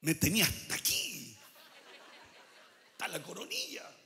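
lightly voiced fed-up God, half laughing; exasperated God. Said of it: "veo a Dios así".

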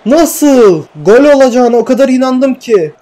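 high, exasperated cry of disbelief. Real, not acted. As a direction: wail over a missed sure goal. Disbelief at missed chance.

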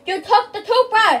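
high, loud, drawn-out outcry; shocked shout. Real, not acted. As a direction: shout an accusation in disbelief. Shocked at game action.

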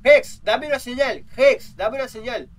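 slow, loud call into the dark; drawn-out call to summon the ghost. Real, not acted. Calling out to the ghost Hex in the game, a slow loud summons.

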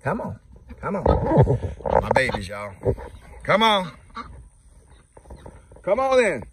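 high-pitched calling the flock; high coaxing call. Real, not acted. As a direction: call the ducks over to eat. Calling ducks to come eat.

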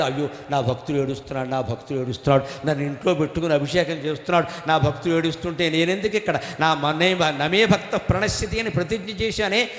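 lightly voiced tender deity; God lamenting. God voiced grieving for devotee.

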